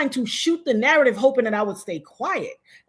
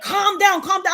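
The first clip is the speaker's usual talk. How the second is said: mimicked placating; 8 semitones higher, 4 dB louder than usual. Mimicking friend telling her to calm down.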